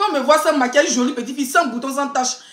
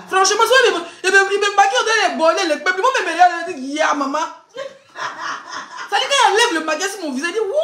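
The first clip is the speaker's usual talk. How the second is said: laughing; 4 semitones higher than usual. Real, not acted. Laughing through makeup story.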